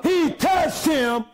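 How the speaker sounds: shouted gospel climax; chanting preacher cadence; preaching at full force. Acted. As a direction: lift them up with the healing. Preaching climax about Jesus' touch.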